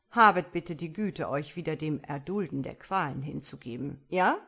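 loud, emphatic devil's command; growling devil. A narrator's reading. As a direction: growl a mock-polite order at the damned. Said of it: "Um seinem Knurren Nachdruck zu verleihen". (knurrender Teufel)

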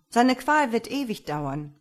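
loud, dismayed protest; exclaiming. A narrator's reading. Farmer fears for his master's endless torment, exclaiming loudly. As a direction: press the objection forcefully. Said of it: "rief jetzt der Bauer".

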